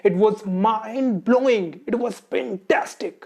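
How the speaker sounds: high, loud and drawn out with excitement; energetic praise. Shown as a demonstration. Teacher shows students how to praise a performance, excited and loud. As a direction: sound truly blown away. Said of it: "आप कैसे बोलते हो?".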